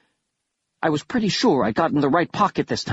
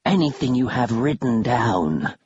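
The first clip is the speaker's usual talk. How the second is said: creature voice. Acted. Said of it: "a third creature said".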